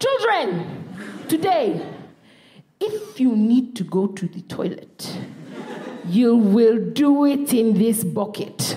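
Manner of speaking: lightly voiced mum, slow and deliberate; slow, measured maternal decree; stern mum announcement. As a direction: spell it out slowly to the children. Comedian acts out mum's stern announcement.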